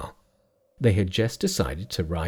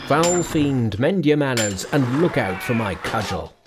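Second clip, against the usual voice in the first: crying out; 2 semitones higher than usual. Acted. Hui Yen warning the attacking monster, raised voice. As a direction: call out the threat at the fiend.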